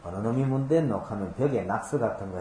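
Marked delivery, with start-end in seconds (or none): 0.0-1.0 Gyeongsang "뗐노" said as a gruff question; lightly voiced Gyeongsang elder asking who did it; Gyeongsang dialect. Shown as a demonstration. Pastor quoting a Gyeongsang question to his congregation, in dialect. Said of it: "어느 놈이 문질렀느냐 이 말이거든요".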